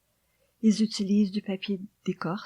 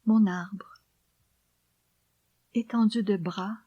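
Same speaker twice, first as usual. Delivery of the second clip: poem recitation. Acted. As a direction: read the poem gently, almost whispered.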